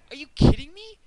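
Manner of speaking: loud incredulous outburst; exasperated yell. Retold or imitated. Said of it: "I was like".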